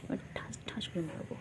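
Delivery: soft unvoiced playful threat; whispered mock threat. Owner teasing the bird with a whispered threat. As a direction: breathe the threat out as a joke. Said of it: "the threat again, whispered".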